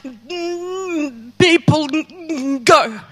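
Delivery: halting, stuttering over each m, breaking off; stammering Moses. Acted. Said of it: "I have a stammer".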